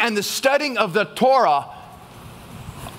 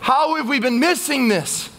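excited cry; 4 semitones higher, slower than usual. Retold or imitated. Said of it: "people are shouting and they're crying out".

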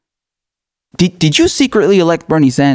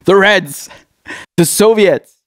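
mock red scare panic; 4 semitones higher, slower than usual. Mock Cold War panic.

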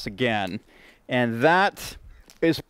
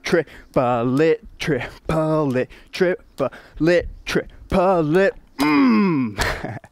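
breathless, panting while counting; gasping for air mid-count; out of breath; much slower than usual. Real, not acted. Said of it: "You can hear I'm out of breath".

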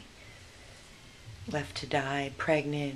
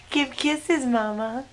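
loud, much higher cooing; 9 semitones higher, 11 dB louder, slower than usual. Real, not acted. Rescuer asking the dog for kisses in high baby talk.

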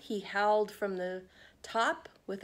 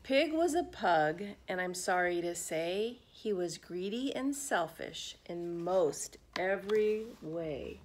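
storybook reading. A narrator's reading. Reading picture book to children.

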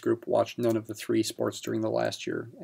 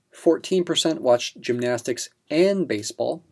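the word "and" lifted and leaned on, the rest plain; stress on and. Shown as a demonstration. Teacher to exam students, stressing "and" with a lift. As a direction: give "and" a clear push so both sports count together. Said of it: "Emphasis on the word and".

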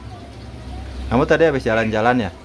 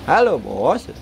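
"Halo, Bos" swooping up, down and up; sing-song call; 4 semitones higher, slower than usual. Shown as a demonstration. Owner coaching bird to greet the boss, sing-song.

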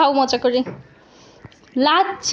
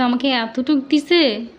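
put-on baby voice; slower than usual. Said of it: "baby বলবে".

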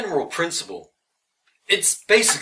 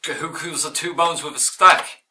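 put-on Irish accent; 3 semitones higher, 3 dB louder than usual. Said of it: "trying to do an Irish accent".

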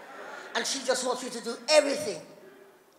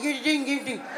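mimicked garbled syllables; imitated impaired speech. Husband after a stroke answering wife, imitated garble. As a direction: babble it as someone struggling to speak. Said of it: "he can't talk a bit".

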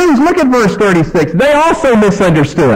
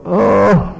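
low groan at being misunderstood; exasperated groan; 4 semitones lower than usual. Retold or imitated. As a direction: let out a sinking, frustrated "oh". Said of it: "It causes you to moan or to groan".

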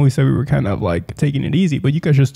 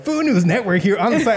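reporter impression; 7 semitones higher than usual. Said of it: "And he's like".

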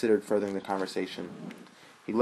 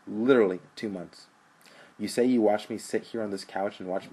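angry brother; 2 semitones higher, 4 dB louder than usual. Acted. Rich berates brother.

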